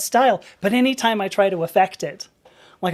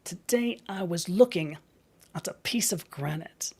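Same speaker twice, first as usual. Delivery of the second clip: soft, musing British science presenter; hushed British lecture, dropping to near-whisper on key words; Hannah Fry; 4 dB quieter than usual. Retold or imitated. Presenter musing on granite and igneous rocks, soft British accent. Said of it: "Hannah Fry".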